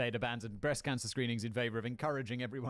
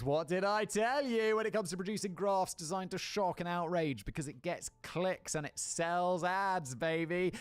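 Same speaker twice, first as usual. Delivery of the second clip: smug told-you-so rant; gloating rant; 5 semitones higher than usual. Real, not acted. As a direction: rub it in, triumphant.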